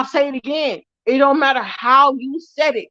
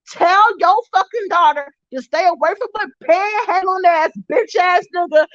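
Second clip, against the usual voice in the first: crying rant; 4 semitones higher than usual. Real, not acted. Ranting, voice cracking toward tears.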